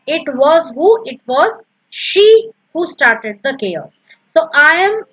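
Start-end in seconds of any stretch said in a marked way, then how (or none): 1.1-4.0 slow line with "she" punched; stress on she. Shown as a demonstration. Teacher showing emphasis on the pronoun, stress on "she". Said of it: "I am giving emphasis to what".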